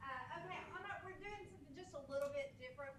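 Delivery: projecting teacher voice to the room. Real, not acted. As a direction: carry your voice like a classroom teacher. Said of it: "I'll use my teacher voice".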